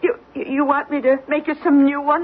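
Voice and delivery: tearful, stammered offer; close to crying. Acted. Housekeeper offers her employer new eggs, tearfully. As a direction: hold back tears as you offer. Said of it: "don't cry".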